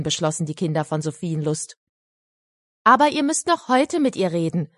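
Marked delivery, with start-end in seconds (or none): 2.8-4.7 demanding. Acted. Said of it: "verlangte Pünktchen".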